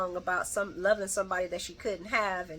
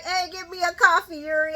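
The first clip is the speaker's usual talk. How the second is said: imitating Brooklyn; 8 semitones higher, 5 dB louder than usual. Acts out Brooklyn ordering coffee.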